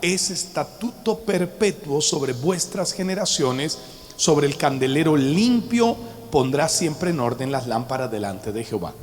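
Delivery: scripture reading. Acted. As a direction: read the verses out as holy text. Reads Leviticus aloud.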